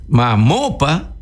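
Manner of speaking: "Mamó" stressed on the final "mó", "pa" left light; slow, hit "mó" and let "pa" fall away. Shown as a demonstration. Teacher showing students the accent, stress on "mó". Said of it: "el acento cae antes".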